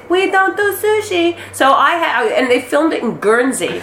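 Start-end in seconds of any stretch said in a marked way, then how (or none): 0.1-1.4 put-on high-pitched, generalized Asian-accent parody; hack Asian accent. Comedian breaking an awkward audition silence, hack Asian accent. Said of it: "generalized Asian accent".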